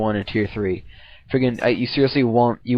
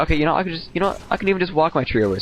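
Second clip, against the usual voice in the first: excited realisation; 6 semitones higher, faster than usual. Retold or imitated. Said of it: "So I'm like".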